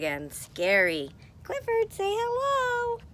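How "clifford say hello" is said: high squeaky puppet voice for the toy dog. Pretend. Teacher voicing her stuffed dog for children. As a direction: make the stuffed dog greet the class.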